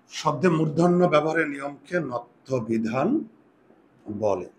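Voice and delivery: slowish, the whole sentence in one go; dictation read through. Shown as a demonstration. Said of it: "এবার একটু সংজ্ঞা লিখো". (একটানা ধীরে পড়ে শোনানো)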